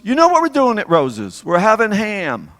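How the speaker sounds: very high, loud imitation of mother; hammed-up mother answering dad, slowing at the end; mother's reply. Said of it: "And my mother would say".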